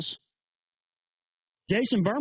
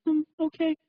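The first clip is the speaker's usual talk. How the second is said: high put-on voice, halting with ums; mocking female radio host; 9 semitones higher, slower than usual. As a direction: imitate a clueless woman host, stalling between phrases. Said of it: "she talked like this".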